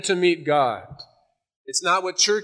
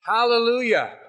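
higher-pitched mock cry of hallelujah; retold yell; 5 semitones higher than usual. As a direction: call it out high, without real shouting. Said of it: "and he yells".

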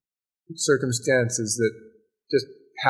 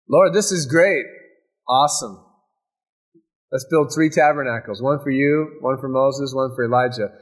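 mock eager Peter. Preacher retelling Peter's gushing plan on the mountain, mock eager. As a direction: blurt it out like an eager disciple. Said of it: "after Peter finished blabbing".

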